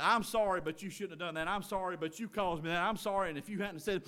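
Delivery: soft, offhand mock apology; insincere apology. Husband mimicking a sorry that shifts blame, insincere apology. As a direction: toss off a half-hearted sorry, quietly. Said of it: "you don't say it like that".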